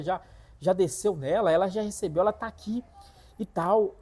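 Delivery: put-on high, loud, furious girlfriend telling him off; angry scolding. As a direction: scold him for showing up late. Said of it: "brava comigo".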